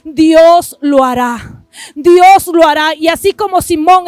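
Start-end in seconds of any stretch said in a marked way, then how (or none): 0.0-1.6 Dios drawn out very slowly; slow solemn declaration. Real, not acted. Pastor promising the audience, very slow and solemn. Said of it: "vengo a decirte". 1.9-2.9 "Dios lo hará" pushed out louder, faster; louder repeat. Real, not acted. Pastor repeating the promise, louder and emphatic. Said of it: "vengo a decirte".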